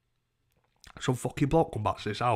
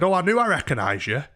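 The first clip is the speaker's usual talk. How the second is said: high, loud imitated exclamation; mock excited recognition; 7 semitones higher, 6 dB louder than usual. Overheard woman recognising someone, mimicked excitedly.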